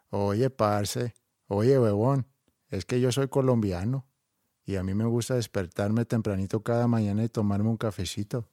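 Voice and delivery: a light, calm Colombian accent; an easy Colombian lilt, unhurried. Shown as a demonstration. Asked for a Colombian accent, a light Colombian accent. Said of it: "un acento colombiano".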